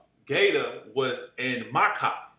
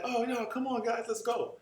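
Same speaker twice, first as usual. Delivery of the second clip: rich man voice; 8 semitones higher, 4 dB quieter than usual. Retold or imitated. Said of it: "He was like".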